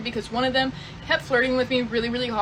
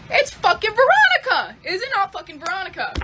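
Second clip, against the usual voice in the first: much higher, louder accusing shout, fading on the second question; retold angry yell; 10 semitones higher, 7 dB louder than usual. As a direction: fling the accusation at him. Confronting husband about his girlfriend.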